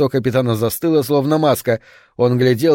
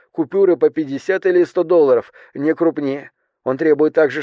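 stewardess reporting demands; 3 semitones higher than usual. Acted. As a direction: relay the threats in a raised, careful voice.

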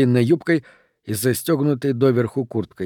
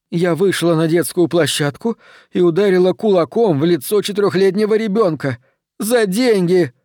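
horrified outburst; 4 semitones higher than usual. Acted. Horrified self-accusation.

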